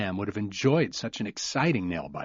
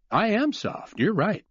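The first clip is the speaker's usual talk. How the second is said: said with a smile; 11 semitones higher than usual. Acted. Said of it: "Cooper said with a smile".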